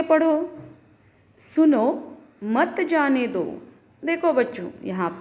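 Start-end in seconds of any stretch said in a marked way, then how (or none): 1.4-3.6 "सुनो", a clear pause, then slower "मत जाने दो"; pause after सुनो. Shown as a demonstration. Teacher reading a comma example to children, pausing after सुनो. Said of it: "सुनो के बाद अल्प विराम दिया गया है".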